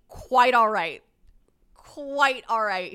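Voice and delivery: loud acted reply, stretching the second take; loud, drawn-out dismissal. Woman answering her apologetic overnight guest, loud and drawn out. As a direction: emphatically send him off, words dragged out.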